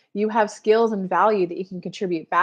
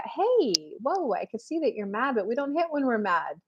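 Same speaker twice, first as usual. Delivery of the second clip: put-on soft, soothing correction to a small child; gentle parent; 2 semitones higher, 5 dB quieter than usual. Parent to toddler who hits when mad, gentle correction. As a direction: calmly rein in a little one, softly.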